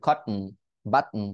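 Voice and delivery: "কটন" and "বাটন" with T swallowed; catch, then hummed n in "কটন", "বাটন"; "কটন", "বাটন" as kot-n, bat-n; glottal stop T. Shown as a demonstration. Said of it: "এই ধরনের সাউন্ড গুলো করা".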